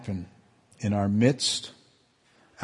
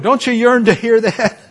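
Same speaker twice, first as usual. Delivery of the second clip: high, loud, yearning appeal; urgent appeal; 11 semitones higher, 10 dB louder than usual. Real, not acted. Pastor to congregation, high urgent yearning. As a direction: press the listeners to long for it.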